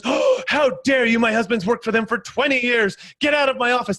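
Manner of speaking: retold furious customer, played lightly; indignant lady. Angry customer throwing out the Yellow Pages salesman, mock indignant. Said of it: "And she goes".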